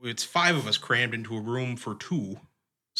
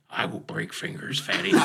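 mock threat; 3 semitones lower than usual. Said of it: "He's like".

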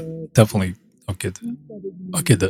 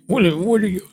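high, teasing put-on voice asking what are you, French; mocking voice; 13 semitones higher than usual. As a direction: tease like a friend poking fun. Mocking reaction to his accent.

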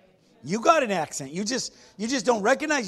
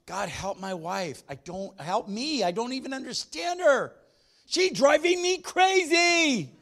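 mock prayer; 3 semitones higher than usual. Preacher voicing a husband praying about his wife, mildly exasperated. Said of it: "What's on your heart?".

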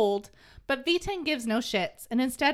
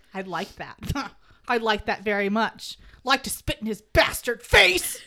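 muttering; 3 semitones lower, 5 dB louder than usual. Retold or imitated. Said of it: "starts muttering under his breath".

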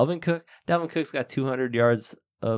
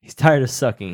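louder replay of the quote; quoting the player louder; 6 dB louder than usual. Retold or imitated. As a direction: punch out the quote. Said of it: "he said".

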